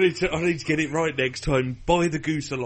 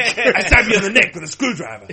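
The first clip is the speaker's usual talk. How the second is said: laughing threat; 7 semitones higher, 9 dB louder than usual. Acted. Joking mock threat, laughing.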